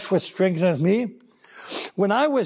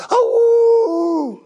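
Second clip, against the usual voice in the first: wolf howl; 14 semitones higher, 6 dB louder than usual. Acted. Preacher howls like a wolf.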